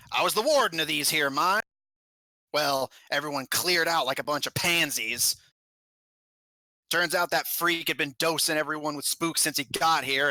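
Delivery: put-on lightly accented goblin warden, scornful; a hint of a goblin telling what went wrong; goblin mine warden. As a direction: tell it like a fed-up old-time mine boss. Goblin warden tells his story.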